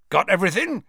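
cheerful, high-pitched question; bright. A narrator's reading. Hagrid greeting the returning friends, brightly. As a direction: ask it brightly, lifting the pitch. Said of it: "asked Hagrid brightly".

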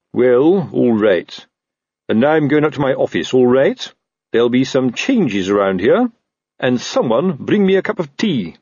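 huffy officer giving orders; lightly voiced self-important boss; officious captain. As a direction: bluster your way out of the room. Narrator voices Colon giving orders.

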